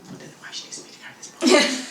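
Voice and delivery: high, breathy muttered complaint; grumbling. Retold or imitated. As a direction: grumble it under your breath. Retold grumbling thought.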